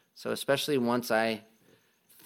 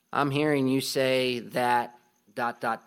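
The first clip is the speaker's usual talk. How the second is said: patient reflecting; slower than usual. Shown as a demonstration. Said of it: "It's helpful to say things like".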